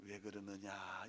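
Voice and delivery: slow, low, soft questioning; God answering. Acted. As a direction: ask gently in a drawn-out God voice. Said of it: "요즘에는". (낮고 느리게 묻는 하나님 목소리)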